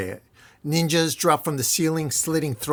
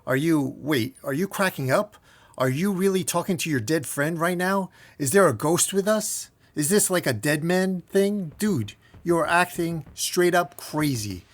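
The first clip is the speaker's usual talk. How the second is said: mildly incredulous, raised pitch on the questions; weirded out; 3 semitones higher than usual. Acted. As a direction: question a friend who seems to be cracking up. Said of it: "completely weirded out as he says".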